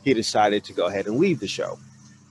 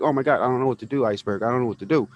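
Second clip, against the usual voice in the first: imitated panic; 3 semitones higher, faster than usual. Woman pleading with Iceberg after the dead guy, imitated panic. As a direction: rush it out like she's losing it, half-acted. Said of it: "And she's panicking".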